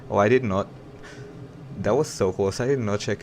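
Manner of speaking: loud relieved exclamation after a near miss; startled outburst. Real, not acted. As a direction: blurt it out, shocked it barely worked. Near crash under a bridge.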